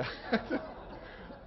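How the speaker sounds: high unvoiced laugh at himself; sheepish laugh; embarrassed breathy laugh. Real, not acted. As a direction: laugh off the blunder.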